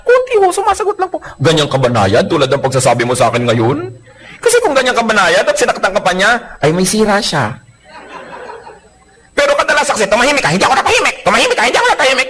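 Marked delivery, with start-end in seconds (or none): 0.1-1.2 much higher, sweetly meek little voice; pretend-innocent wife, high and sweet. Wife answering meekly. 10.1-12.3 fast mock quarrel. Quarreling couple mocked.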